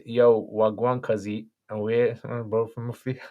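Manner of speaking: slow Brummie street greeting; joking, drawn-out Brummie; Brummie accent. Shown as a demonstration. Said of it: "come in with the Brummy accent".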